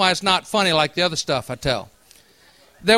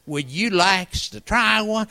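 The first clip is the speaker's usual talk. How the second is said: put-on old man voice; slower than usual. Old fisherman voiced in story.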